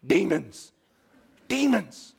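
darkly voiced, ominous; spooky dread. Preacher as disciple fearing sea demons, ominous. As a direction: say it like a scary secret. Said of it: "I've been told since I was a child".

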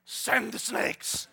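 loud, high, slow, half-laughing fury; mock fed-up God. God fed up with grumblers, loud hammed-up anger. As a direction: play God losing patience, hammed-up. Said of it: "God was like".

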